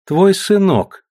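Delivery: high, slow and gentle; tender. A narrator's reading. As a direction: Natalya tenderly telling her husband it's his son. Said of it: "ласково ответила Наталья".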